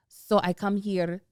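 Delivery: put-on very light German accent, slow; a hint of German, lightly imitated; Anna, light German accent. Podcaster imitating the real Anna, light German accent. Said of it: "very light German accent".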